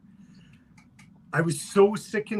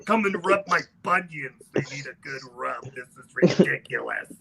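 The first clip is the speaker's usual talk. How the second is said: put-on raspy old woman. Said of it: "your voice is deeper and more raspy than mine".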